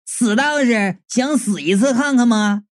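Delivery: cutesy angry threat with a stamp; mock-girlish scolding of the priest; petulant outcry. Yun Mei stamps her foot at the priest, petulant. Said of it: "跺着脚就叫道".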